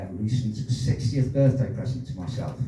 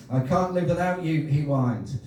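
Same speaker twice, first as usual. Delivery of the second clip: comic poem recital; 4 semitones higher than usual. Acted. Poet reading a feminist love poem to the audience, comic recital. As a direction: set up the rhyme, then land it.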